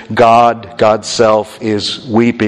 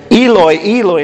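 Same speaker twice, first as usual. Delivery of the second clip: crying out; 7 semitones higher, 3 dB louder than usual. Retold or imitated. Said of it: "And so".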